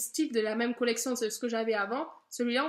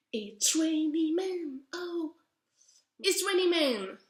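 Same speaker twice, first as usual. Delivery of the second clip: French-accented English; 3 semitones higher, slower than usual. Real, not acted. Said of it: "Pardon pour mon anglais".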